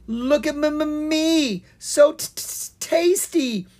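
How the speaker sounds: high, stuttering, slow terrified voice; stammering in fear. Acted. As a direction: stutter each word, scared stiff. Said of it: "Owen stammered".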